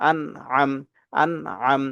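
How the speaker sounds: আন from the bottom of the throat, আম from its middle; distinct throat sounds. Shown as a demonstration. Teacher making two letters distinct, আন then আম with a gap between. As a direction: separate আন and আম, squeezing mid-throat for আম. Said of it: "প্রথমটা হবে হলকের শুরু থেকে".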